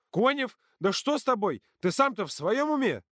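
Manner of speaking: high, indignant reprimand; high-pitched telling-off; shocked scolding. A narrator's reading. Counsellor scolds boy.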